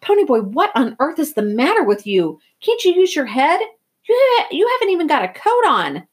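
loud, high, exasperated tirade; heated rant, building to a high yell; angry scolding. A narrator's reading. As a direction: tear into him as a worried, furious brother. Older brother scolds him angrily.

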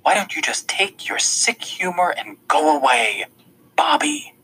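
hissed, spat-out Bobby at the end; contemptuous dismissal; spitting contempt. A narrator's reading. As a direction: spit the name at him. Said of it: "She practically spits the name".

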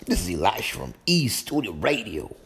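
lightly Southern radio intro; Southern accent, friendly show opener. Pretend. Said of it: "That's my little southern voice".

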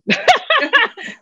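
high burst of laughter; high delighted laugh. Real, not acted. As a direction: laugh at yourself. Laughing at her refusal.

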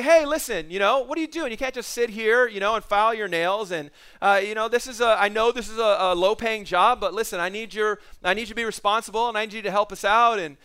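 scolding receptionist. Retold or imitated. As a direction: dress her down from above. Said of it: "she just went after that".

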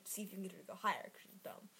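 whispered boss aside; scheming whisper. Retold or imitated. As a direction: hiss it like a secret plan. Boss plotting behind buyer's back.

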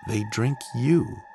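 a hint of a spooky little boy; child's voice. A narrator's reading.

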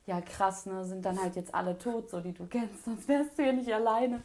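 understated, subdued resignation; a touch of dejection; retold sadness. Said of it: "richtig traurig".

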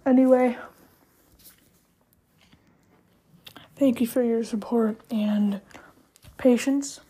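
talking while eating pretzels; words round a mouthful of pretzel. Real, not acted. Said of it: "Sorry, I'm eating pretzels right now".

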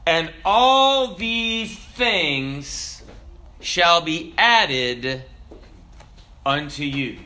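slow, solemn recitation of the verse; scripture reading. Acted. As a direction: draw each phrase out with reverence.

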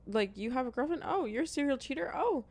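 high-pitched, delighted overlooking of every flaw; mock smitten approval. Girl excusing a raspy-voiced man's flaws, mock smitten. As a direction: play swooning and forgiving, voice lifted high.

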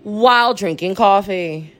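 bright show host greeting; show host intro. Shown as a demonstration. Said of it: "We're gonna try this one more time".

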